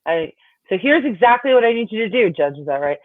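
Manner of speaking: unsure witness. Retold or imitated. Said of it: "she was clearly looking at the judge, like".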